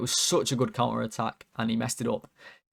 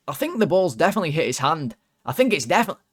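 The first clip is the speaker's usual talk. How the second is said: put-on Scottish accent; 6 semitones higher, 7 dB louder, faster than usual. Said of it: "I'll try and do the accent".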